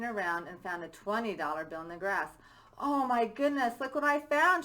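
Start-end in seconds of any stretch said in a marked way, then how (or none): 2.8-4.6 a touch of a higher, louder squeal; mild squeal. Acted. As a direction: lightly squeal it, half-hearted. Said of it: "she squealed".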